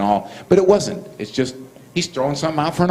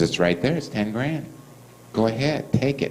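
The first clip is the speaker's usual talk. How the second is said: understated dare; 6 dB quieter than usual. Retold or imitated. Inmate repeating the offer to the guard, understated dare. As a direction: let the offer drop quietly.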